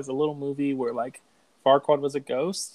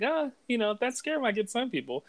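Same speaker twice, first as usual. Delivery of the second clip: much higher, softer Donkey voice; retelling a movie scene, pitched way up as Donkey; imitating Donkey; 10 semitones higher, 5 dB quieter than usual. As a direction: squeak it out like the excitable donkey. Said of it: "And then Donkey's like".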